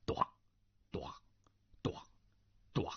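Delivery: short imitated knocks, evenly spaced; kowtow thuds. A narrator's reading. Narrator imitating a head thudding on the floor, short beats. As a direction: voice each thud as a separate knock. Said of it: "咚咚有声".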